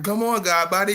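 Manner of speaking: funny voice. Retold or imitated. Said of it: "you hear that funny voice".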